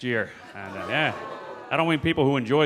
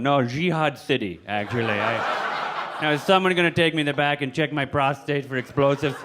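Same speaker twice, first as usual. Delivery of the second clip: put-on Middle Eastern accent. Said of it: "fake a Middle Eastern accent".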